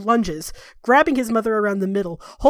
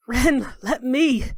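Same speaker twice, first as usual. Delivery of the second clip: gasping; 4 semitones higher, much slower than usual. Acted. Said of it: "through gasping breaths".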